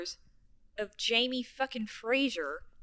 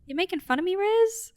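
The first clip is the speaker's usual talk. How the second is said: Sandy; 7 semitones higher, 4 dB louder than usual. Retold or imitated. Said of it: "Sandy comes out of the bathroom and goes".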